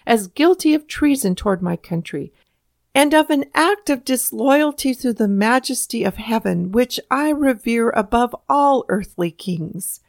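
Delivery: a touch of grand oratory, measured and firm; impressive declaration. A narrator's reading. Patrick Henry to the House, impressively declaring. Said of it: "he declared impressively".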